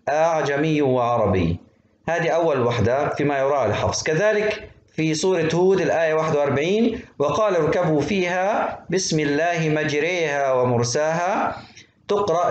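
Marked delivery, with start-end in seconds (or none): 0.1-1.6 أعجمي with a firm first hamza, softened second; eased second hamza. Shown as a demonstration. Teacher showing students tas-heel of the hamza, eased second hamza. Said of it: "همزة محققة وبعدين همزة مسهلة". 7.2-11.6 slow recitation, alef of مجريها tilted toward "ay"; imala in recitation. Shown as a demonstration. Teacher reciting the verse from Hud, imala on مجريها. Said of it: "الألف هذه تقرأ بالإمالة".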